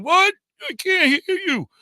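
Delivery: high, loud yell through a small opening; shouting to be heard. Retold or imitated. Trapped driver shouting back to the kids, high and loud. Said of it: "I'm going".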